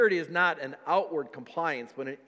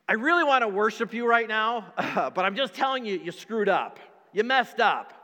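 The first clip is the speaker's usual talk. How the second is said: louder, blaming tone with laughter; mock accusation; 4 dB louder than usual. Believer blaming God for not being there, louder. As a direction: hammer the blame on God.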